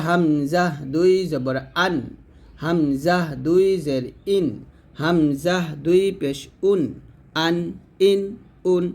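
slow chanted spelling, ending firmly on "আন", "ইন", "উন"; firm throat hamza. Shown as a demonstration. Teacher modelling tanween on hamza, slow and firm. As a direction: stretch "হামজা", strike "আন", "ইন", "উন" from the throat. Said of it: "হলকে শুরু থেকে শক্ত করে".

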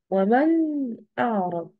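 ومن أعرض with the nun in ومن said clearly, not merged. Shown as a demonstration. Teacher showing students a clear nun in ومن أعرض. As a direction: sound the nun in ومن fully before أعرض. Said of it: "أوضح النون".

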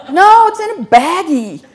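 very high and loud, slow, laughing; mimicking the staff's deadpan reply while laughing; laughing mock reply.

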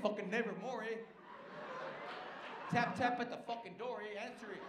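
put-on Chicano cholo accent; mock cholo accent. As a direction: imitate a cholo reciting poetry. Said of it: "Did you hear his accent?".

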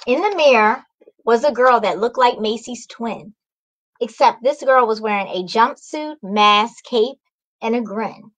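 bright, lively read-aloud; cheerful story time voice; storybook narration. A narrator's reading. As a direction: wake the kids up with the morning. Picture-book narration.

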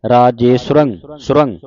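ਸੁਰੰਗ as "su-rang", short u and nasal end; spelled-out pronunciation. Shown as a demonstration. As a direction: say ਸੁਰੰਗ with short u after s, then a nasal r syllable. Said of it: "ਸੱਸੇ ਔਂਕੜ ਐੜਾ ਰਾਰੇ ਟਿੱਪੀ ਉਚਾਰਨ ਕਰਨਾ". (ਸੁਰੰਗ ਵਿੱਚ ਸੱਸੇ ਔਂਕੜ ਤੇ ਰਾਰੇ ਟਿੱਪੀ ਸਾਫ਼)

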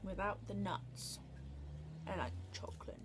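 talking between bites; eating candy while speaking; mouth full, chewing. Real, not acted. Seen 2: Bit bar just before; lips pressed, chewing between words, bar held.

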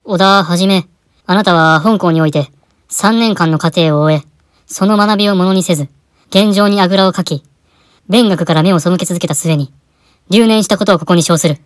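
solemn certificate reading; formal ceremony read. Acted. Principal presenting mock diploma, solemn formal reading. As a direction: read it like a graduation award.

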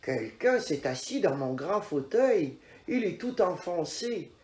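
a hint of a growly father bear; grumbling papa bear. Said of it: "gronde encore papa ours".

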